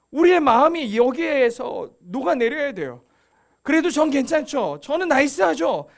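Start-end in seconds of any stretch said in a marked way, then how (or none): 3.6-5.9 louder, higher, mock self-praise; self-satisfied pride. Proud believer reassuring the Lord of their goodness, mock self-satisfaction. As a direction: play someone pleased with their own goodness. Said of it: "그 마음의 교만".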